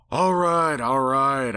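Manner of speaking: breathy, giving-in sigh; grudging surrender; pony giving in to the bird, sighing. A narrator's reading. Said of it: "I sighed".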